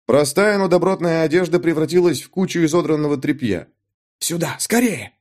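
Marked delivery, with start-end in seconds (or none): 4.2-5.1 frightened call. A narrator's reading. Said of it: "послышался перепуганный голос".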